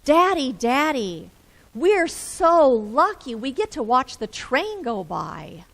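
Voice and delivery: lightly voiced happy child calling out; a hint of a small child, delighted; child calling from the back seat, lightly voiced; sweet childish voice. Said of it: "a sweet, childish voice calls out".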